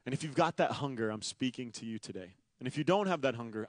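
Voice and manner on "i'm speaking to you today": hushed appeal. Acted.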